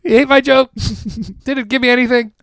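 high, loud giggly repeat; laughing echo. Real, not acted. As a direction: repeat it cracking up. Echoing the line through laughter.

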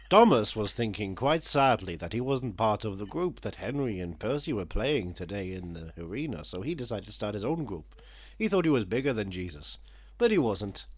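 measured, lilting storybook reading; children's storybook narration. Acted. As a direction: read it out like a Thomas picture book. Reads his mock children's book.

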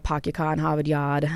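"park your car in Harvard Yard" with every R dropped. Shown as a demonstration. Linguist demonstrating Yat R-lessness on "park your car in Harvard Yard". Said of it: "you're gonna hear that R-lessness".

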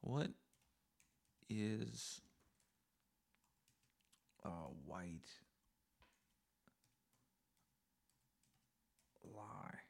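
hushed, spooky whisper. Acted. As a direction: whisper it like a secret. Dramatic whispered question.

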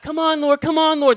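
high, loud complaining plea; exasperated plea. Retold or imitated. Man pushed aside, pleading loudly in frustration. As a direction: whine it out, almost stamping. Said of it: "I was like".

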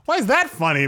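put-on high, whiny young speaker protesting; indignant kid. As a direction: pitch it up like an offended fourth grader. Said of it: "And I'm like".

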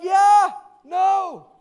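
high, loud mock-fangirl voice; insistent fan. Young lady insists to pastor, high excited mock voice. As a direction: imitate an overeager young woman. Acting out the admirer.

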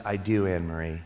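low, soft retold reply; gentle father. Retold father answering his daughter.

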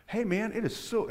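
high-pitched, over-eager fake enthusiasm; mock gushing. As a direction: gush like an overly grateful teen, hammed-up. Mocks gushing reply he never gave.

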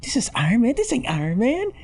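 high, hammed-up Tony Stark voice; mock Tony Stark. Mocking Robert Downey Junior as Iron Man. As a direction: ham up the Iron Man swagger.

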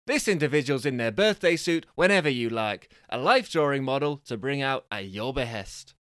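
lively prize-reveal patter; punchy announcer read, easing after the first phrase; game show prize announcer. Acted. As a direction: sell the prizes with showy cheer.

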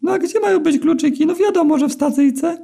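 very high, thin and squeaky, slowed down; squeaky eel begging for mercy. A narrator's reading. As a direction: plead in a tiny squeaky eel voice. Eel answering.

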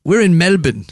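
light mock Aussie accent; Australian accent. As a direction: play an Aussie local, lightly. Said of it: "You do a really good Australian".

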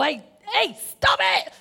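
sharp, high scolding snap; mock snap. Grandma showing how she didn't scold Riley, mock sharp snap. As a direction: bark it like an impatient adult. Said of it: "It wasn't a snap".

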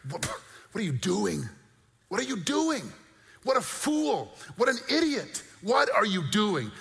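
high-pitched, incredulous scolding; scornful scolding. Acted. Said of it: "That's the tone of what's happening".

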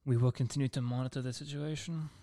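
mock British newsreader; bad British accent, formal and clipped; a put-on British accent, half-joking. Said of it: "I don't know why I did that accent".

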